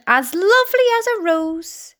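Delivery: a hint of a preening aunt reciting; vain Aunt Sponge. Aunt boasting of her beauty, lightly voiced. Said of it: "Aunt Sponge declared".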